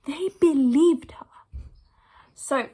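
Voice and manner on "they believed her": breathy whisper of resentment; whispering the unfair verdict; whispered aside. Real, not acted. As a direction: drop to a whisper as if sharing a secret. Bitter aside about the unfair outcome.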